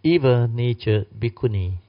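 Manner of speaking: loud, stressed evil-natured bhikkhuni; emphatic preaching. Real, not acted. Preacher stresses the warning to his listeners, loud. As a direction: hammer the phrase to the assembly.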